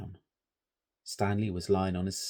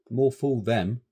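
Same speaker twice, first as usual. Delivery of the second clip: rude; 3 semitones higher, 7 dB louder, slower than usual. A narrator's reading. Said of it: "rudely and ungrammatically".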